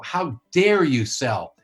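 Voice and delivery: mock-indignant shaming of a salesperson; mocking scold. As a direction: drag it out like a sanctimonious critic. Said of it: "I read one of these the other day, trying to shame salespeople".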